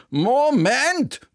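high, loud "Moment!"; sharp objection. Acted. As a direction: stop him before he runs. Bertha objects. (scharfer Einwand, hoch und laut)

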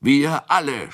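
high, rousing shout; eager yell of agreement. A narrator's reading. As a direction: shout it for the whole company. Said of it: "schrie Kunicke".

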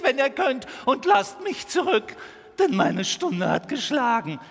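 high, loud, frantic terror; panicked stag. Acted. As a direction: scream in panic, begging them to run. Panicked stag begs them flee.

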